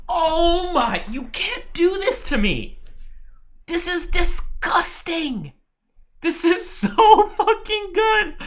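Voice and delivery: very high, slow squealing delight with a laugh; real giddy shriek of joy; ecstatic squeal. Real, not acted. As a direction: squeal at stats too good to bear. Thrilled by a student's stats.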